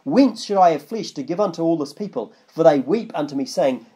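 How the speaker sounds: measured Bible reading; scripture reading. Acted. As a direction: read the verse out with weight. Reads scripture aloud.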